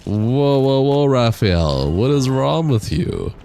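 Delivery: surprised. Real, not acted. Reacting to game boss.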